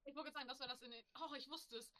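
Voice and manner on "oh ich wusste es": pleased, higher exclamation; excited. Real, not acted. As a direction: cheer that you remembered. Excited at remembering.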